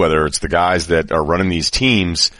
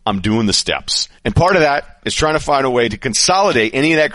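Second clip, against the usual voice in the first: upbeat host-read ad. Acted. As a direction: sell it like a sponsor spot. Host reads sponsor ad.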